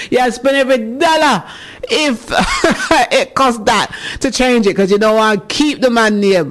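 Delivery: high, giggly read of a listener's line; can barely get through it for laughing; laughing while reading. Real, not acted. Host reading a listener's comment aloud, laughing through it.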